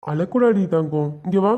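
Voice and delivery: slow, tender coaxing; soothing. Acted. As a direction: comfort a tearful child, drawing the words out. Man soothes upset little child.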